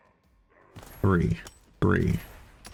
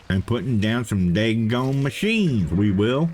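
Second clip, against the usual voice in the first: drawn-out, higher put-on southern accent; 4 semitones higher, slower than usual. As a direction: play up a southern accent for laughs. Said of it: "Trying to be funny with a southern accent".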